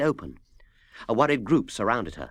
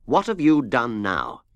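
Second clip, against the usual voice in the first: slow, louder stern question; 4 dB louder, slower than usual. Acted. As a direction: demand an answer firmly. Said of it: "said Mister Wise very sternly".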